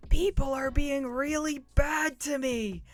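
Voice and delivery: high loud mock whine; whiny complaining. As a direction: whine like a wounded victim. Hammed-up whining about comments.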